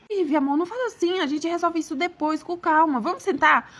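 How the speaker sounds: placating husband. Acted. Husband asks wife to sit and talk, placating. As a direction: coax her to calm down.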